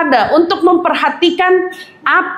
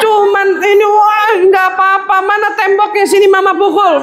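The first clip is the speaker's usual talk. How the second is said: comforting mother; 3 semitones higher than usual. Retold or imitated. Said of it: "Ibu bilang apa?".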